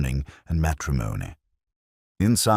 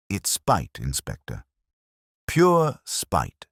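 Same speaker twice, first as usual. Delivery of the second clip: indignant; 3 semitones higher, slower than usual. Acted. Indignant baker insists on spite.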